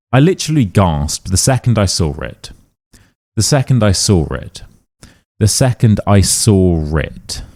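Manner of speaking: "saw it" said as sor-it; intrusive R. Shown as a demonstration. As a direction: slip an R into "saw it". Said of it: "yet for some reason we are adding an R".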